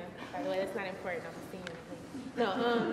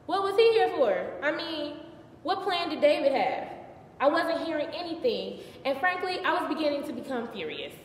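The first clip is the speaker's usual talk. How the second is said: higher-pitched, acted exasperation; worked-up and impatient; agitated questioning; 6 semitones higher than usual. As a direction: demand answers, pitch lifted. Frets over David's plan.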